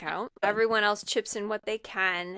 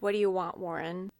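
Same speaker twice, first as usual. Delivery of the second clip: unafraid, matter-of-fact question; deadpan. Retold or imitated. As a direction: ask it deadpan, totally unbothered. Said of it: "like, just deadpan, like, not scared of him".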